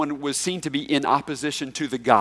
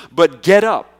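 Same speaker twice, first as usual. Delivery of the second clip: commanding call; 5 semitones higher, 6 dB louder than usual. Retold or imitated. Jesus commands Paul.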